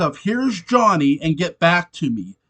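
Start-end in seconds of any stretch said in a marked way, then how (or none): 0.2-1.2 slow, louder, higher mock menace; lightly hammed-up axe-killer taunt; Here's Johnny impression. Quoting the famous axe line.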